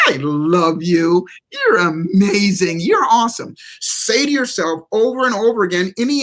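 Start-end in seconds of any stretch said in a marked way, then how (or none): 0.1-3.5 slow, sincere words to your mirror self; mean every word, slowly; self-affirmation. Shown as a demonstration. Looking in the mirror at yourself, slow sincere affirmation. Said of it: "look in yourself in the eyes and go".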